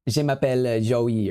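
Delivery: slow learner's French with a Spanish tinge; fake French accent. Shown as a demonstration. Streamer mocks own French lessons, slow fake French accent. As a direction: attempt a French introduction, slowly and badly. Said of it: "that sounds like fake French".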